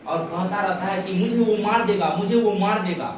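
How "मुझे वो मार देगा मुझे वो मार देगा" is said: high, loud imitation of a frightened son; alarmed retold cry. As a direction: cry out as if hunted, acted. बेटा जान के डर से दोहराता. (डर भरी ऊँची पुकार का अभिनय)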